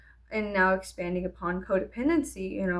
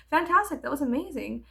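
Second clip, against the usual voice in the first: a sudden high burst of praise; teacher swings to gushing praise; 5 semitones higher than usual. Retold or imitated. Teacher gushing praise at the end of a piece. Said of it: "she'd be like".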